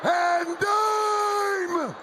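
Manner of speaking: loud proud announcement; announcer-style boast; catchphrase shout. Acted. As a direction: boom it like a ring entrance.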